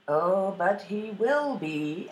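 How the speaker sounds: slow, drawn-out sibling taunt; knowing taunt. Acted. Two brothers doubt the youngest's courage, slow and taunting. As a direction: stretch it out, doubting him.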